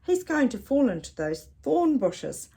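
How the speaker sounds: loud, rising urgent shout. Acted. Percy shouting at the falling bird, loud urgent cry. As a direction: urge the bird to fly. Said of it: "shouted Percy".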